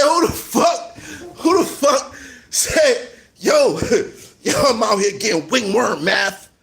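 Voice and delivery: baffled and cracking up mid-quote; mock disbelief. Comic mocking a rapper's silly diss line, incredulous.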